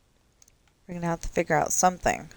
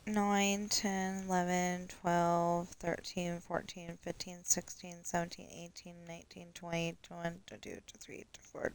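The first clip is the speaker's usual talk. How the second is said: murmured counting; 7 dB quieter than usual. Real, not acted. Counting under breath.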